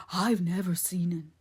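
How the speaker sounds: whispery simple-minded denial; frightened simpleton Ben. A narrator's reading. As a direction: deny it in a hushed, timid voice. Ben's simpleton voice.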